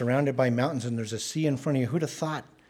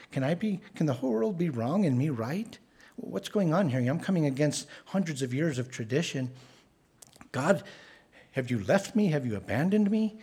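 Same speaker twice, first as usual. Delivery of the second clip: higher, desperate questioning of God; mild anguished plea, higher; anguished crying out; 3 semitones higher than usual. Retold or imitated. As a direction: plead like a man at the end of himself. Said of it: "calling out to God".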